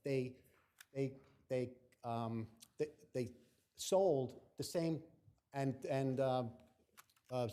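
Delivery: halting, repeating words, stuck; can't get the words out; stumbling over words. Real, not acted. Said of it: "can't get a word out".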